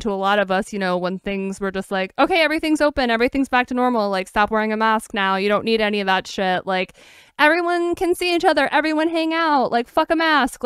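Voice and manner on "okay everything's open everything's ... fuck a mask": high, loud mock cheer about reopening; mock carefree voice. Mocking the world's reopening message, high and loud. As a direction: parody everyone's careless reopening chatter.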